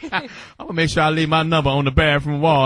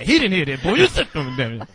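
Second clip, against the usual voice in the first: angry whisper; 5 semitones lower than usual. Retold or imitated. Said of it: "She had the angry whisper".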